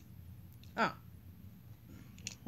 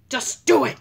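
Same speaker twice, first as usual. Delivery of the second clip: shouting; 5 semitones higher, 12 dB louder than usual. Pretend. Character shouts order.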